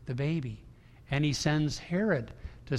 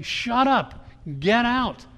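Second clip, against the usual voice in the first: shouted order, much higher and louder; sharp command; 7 semitones higher, 5 dB louder, much slower than usual. Retold or imitated. Jesus silencing the demons, shouted command. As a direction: bark it at the demons.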